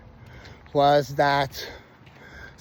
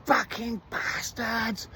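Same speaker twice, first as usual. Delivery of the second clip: mock shout; 7 semitones higher, much slower than usual. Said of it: "I heard someone shouting".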